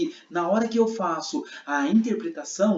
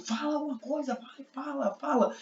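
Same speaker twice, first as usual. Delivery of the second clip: high, softer-volume pushy urging; insistent intonation; 8 semitones higher, 7 dB quieter than usual. Shown as a demonstration. Teacher showing prosody as questioners pressing Jesus, insistent. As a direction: pester for an answer in a raised pitch. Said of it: "Então, prosódia é isso".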